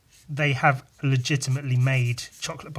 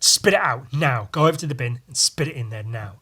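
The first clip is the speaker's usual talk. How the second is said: stern order; 4 dB louder than usual. Retold or imitated. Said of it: "and then she said".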